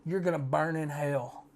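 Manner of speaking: put-on quiet, matter-of-fact old lady quote; lightly retold, low-key condemnation; frail old lady. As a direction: softly pass on her verdict, barely acted. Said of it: "this frail little old lady".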